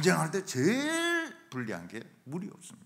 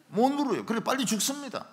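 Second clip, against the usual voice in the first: ordinary delivery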